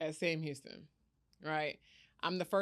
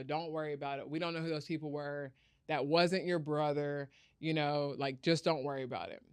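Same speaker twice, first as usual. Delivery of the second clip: reassuring; 2 semitones lower than usual. Retold or imitated. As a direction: hush it down, playing the matter away. Grandparents soothe her in her room.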